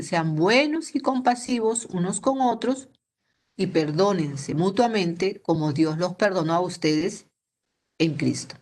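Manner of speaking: slow, deliberate reading of the verse; slow scripture reading. Acted. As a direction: read the verse slowly, word by word. Scripture read once more.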